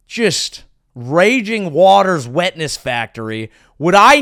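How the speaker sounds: loud, slow, hammed-up rant at the robot; mock furious rant. Comic rant at the robot servant, loud and slow. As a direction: bellow it like an outraged customer.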